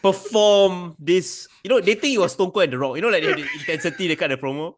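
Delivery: talking through laughter; giggly, amused delivery; laughing. Real, not acted. Laughing while describing promo.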